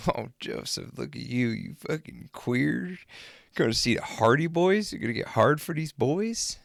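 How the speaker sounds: high, teasing heckle of a friend; mocking taunt. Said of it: "I was just making it hell for him".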